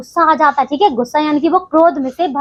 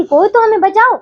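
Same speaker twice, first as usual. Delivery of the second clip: mock shout for help. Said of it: "वो इस प्रकार से चिल्लाते हैं".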